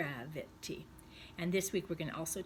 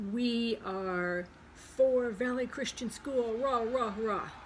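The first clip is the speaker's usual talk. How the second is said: chanting a school cheer, higher and louder; 4 semitones higher, 5 dB louder, slower than usual. Acted. Teacher cheering for the school team. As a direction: cheer it like a pep rally. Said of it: "the kind of for that means".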